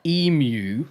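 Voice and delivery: EMU with a y-glide, "EE-myoo". Shown as a demonstration. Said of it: "She says emu".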